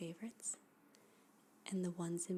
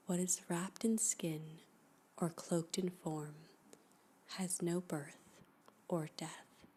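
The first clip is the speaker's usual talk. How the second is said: hushed poetry reading. Acted. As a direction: read each line like a guided meditation, letting it settle. Reads a poem aloud, hushed and slow.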